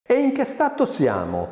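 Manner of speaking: high-pitched, challenging question; acted menace, pitched well up; menacing. A narrator's reading. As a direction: demand it with a threat behind it. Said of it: "chiese minacciosa Carina".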